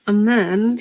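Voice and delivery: talking with a paintbrush in mouth; words round a brush held in the teeth; mouth full. Real, not acted. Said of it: "sorry, I've got my paintbrush in my mouth".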